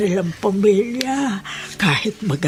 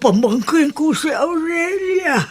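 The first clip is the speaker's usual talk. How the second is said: higher, shouted joyful recognition; 5 semitones higher than usual. Acted. Aunt recognising long-lost niece, joyful shout. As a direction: cry out with joy at the reunion.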